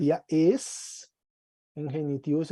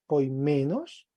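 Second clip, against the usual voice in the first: poimenos said slowly, leaning on "men"; stress on MEN; 2 semitones lower, slower than usual. Shown as a demonstration. Teacher going through the genitive for a student, stress on "men" in poimenos. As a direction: give "men" in poimenos the accent. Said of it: "del acento con fuerza".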